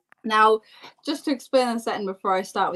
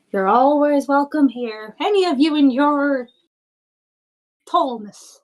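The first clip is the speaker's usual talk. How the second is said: slow, higher woman's character voice; welcoming hostess; 5 semitones higher than usual. Acted. Woman welcoming a guest, lifted hostess voice. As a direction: play a hostess, drawn out and lifted.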